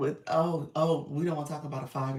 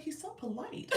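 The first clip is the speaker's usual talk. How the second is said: laughing; 12 semitones higher, 6 dB quieter than usual. Retold or imitated. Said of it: "He was like".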